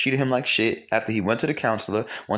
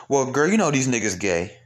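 higher-pitched mock girlfriend chat; imitated gossip; 4 semitones higher than usual. Host imitates women blaming external reasons, mock gossip. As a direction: confide a rumor as an imitated girlfriend.

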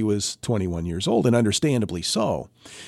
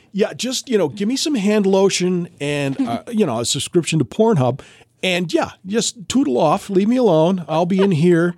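higher, louder playful mock voice; hammed-up horny patient; 8 semitones higher, 4 dB louder than usual. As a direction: brush off the nurses cheekily. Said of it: "I'd be like".

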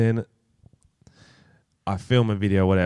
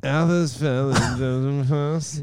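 bad American accent; 3 semitones higher, slower than usual. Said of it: "Is this, is this".

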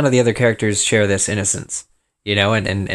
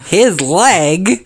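laughing; 9 semitones higher, 4 dB louder than usual. Real, not acted. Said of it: "we were starting recording".

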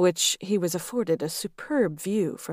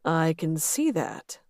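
drawl. Acted. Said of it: "Lex drawled".

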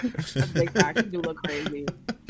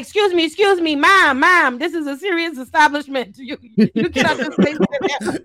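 loud, raised pitch mock official scolding; mock stern chair; 4 semitones higher, 6 dB louder than usual. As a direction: play a prim chair shushing someone. Mocking a chair cutting her off.

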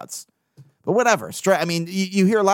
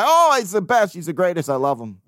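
mock gushing fan.

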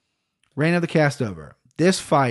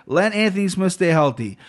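mock prayer; 4 semitones higher, 3 dB louder than usual. Real, not acted. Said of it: "I'm praying".

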